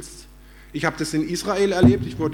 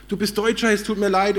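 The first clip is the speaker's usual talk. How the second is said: imitating a sudden, higher-pitched apology; lightly acted gushing regret, pitched up; effusive apology; 4 semitones higher, 3 dB louder than usual. Former attackers apologise to the German tourist, mock effusive apology.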